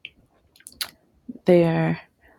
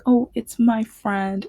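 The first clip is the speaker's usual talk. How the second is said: higher, drawn-out welcome; Santa's glad greeting; 5 semitones higher, 4 dB louder than usual. Retold or imitated. Santa greeting a signing child, glad welcome. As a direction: greet a little friend with delight.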